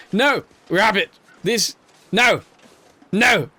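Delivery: high, loud cries of no; anguished shouts. Real, not acted. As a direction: yell at the rabbit in dismay. Rabbit takes the body.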